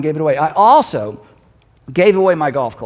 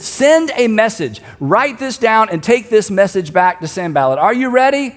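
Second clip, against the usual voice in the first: mild mock shout, raised pitch; 3 semitones higher, 3 dB louder than usual. Nehemiah on the wall to the messenger, mildly shouting down. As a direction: call down firmly, measured at first. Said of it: "And so he shouts down".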